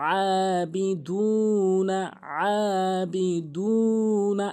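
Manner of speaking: very slow "আবিদুনা" with pressed ayn and held vowels; model recitation. Shown as a demonstration. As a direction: stretch aa and uu in "আবিদুনা". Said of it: "এভাবেই কিন্তু পড়বেন".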